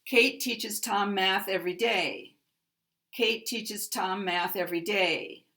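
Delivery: day strongest, with a slide down; even stressed words, main stress on final day. Shown as a demonstration. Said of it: "day is going to get".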